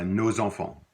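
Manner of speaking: "nos enfants" linked with a z: "no-zenfants"; liaison nos enfants. Shown as a demonstration. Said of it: "you make the little liaison".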